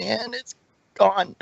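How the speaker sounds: breath running out, voice fading. Real, not acted. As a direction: gasp out the last words. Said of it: "said the whole thing in one breath".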